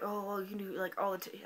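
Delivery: hint of a mimicked teacher; teacher impression. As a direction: imitate an unhurried teacher. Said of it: "that's what she sounds like".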